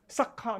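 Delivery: "Sakha" with a breathy puff after the k; "Sakha", k released with an h; aspirated KH in Sakha. Shown as a demonstration. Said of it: "not Sakha".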